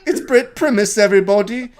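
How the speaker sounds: mocking announcer; mock hype announcer. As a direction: present him like a fairground barker. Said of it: "It's like".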